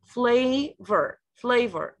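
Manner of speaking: "Flavor" as FLAY-ver, falling; pronunciation demo. Shown as a demonstration. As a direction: model "flavor" carefully, long first syllable. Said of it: "This is how they say it".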